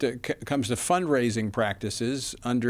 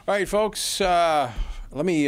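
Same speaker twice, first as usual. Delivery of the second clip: high, loud hail to the audience; rally the listeners with a lift; excited; 7 semitones higher, 5 dB louder than usual. Real, not acted. Host rallying listeners before break.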